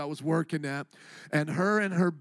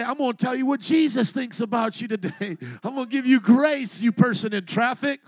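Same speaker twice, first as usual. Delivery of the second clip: acted quote; 3 semitones higher, 6 dB louder than usual. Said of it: "you say".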